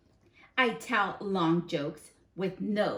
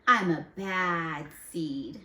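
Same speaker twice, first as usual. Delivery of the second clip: slow, drawn-out villain line; bad seed voice; slower than usual. Teacher voicing the seed character, slow and menacing. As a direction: lean into it like a proud villain.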